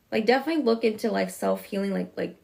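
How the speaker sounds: rushed, fast run of words; talking fast. Real, not acted. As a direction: hurry through it. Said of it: "see, I'm talking fast again".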